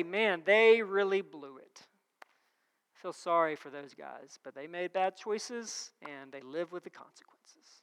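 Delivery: low, soft, resigned remark; detached pity. Acted. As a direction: murmur it like a distant, uninvolved onlooker. God imagined pitying from afar.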